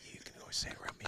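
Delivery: hushed, conspiratorial whisper; breathy secret permission to a child. Retold or imitated. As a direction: whisper it like a secret to your kid. Dad hushing son, secret permission.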